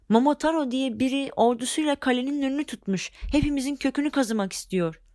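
a hint of frightened whimpering; mild whining. Red devils whine to their chief about Momotaro, mild tearful complaint. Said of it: "ağlayarak yakınmış".

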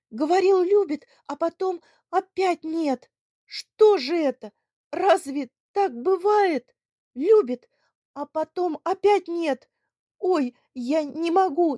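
high, loud tearful wailing; sobbing despair. Acted. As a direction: wail helplessly through tears. (рыдая в отчаянии)

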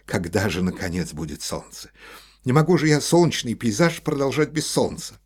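rising to a loud frustrated outburst; irritable complaint. A narrator's reading. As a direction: build from grumble to exasperated cry. Artist complains about no sun.

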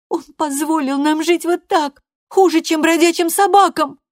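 furious threat. A narrator's reading. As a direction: threaten her mother at full pitch. Loredo rails against God.

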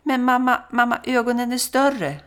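put-on high, loud frightened child's cry; son calling out. Son outside shouting to mother that the eyes are bigger, high panicked call. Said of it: "ropar sonen".

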